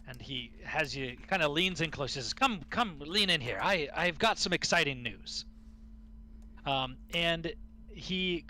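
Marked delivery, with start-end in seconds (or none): 2.3-5.4 eager dwarf. Acted. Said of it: "very excited about something".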